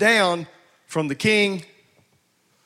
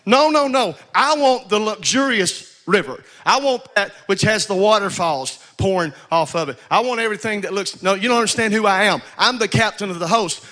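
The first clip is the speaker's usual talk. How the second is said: proud Naaman; 3 semitones higher than usual. Retold or imitated. Preacher voices proud Naaman.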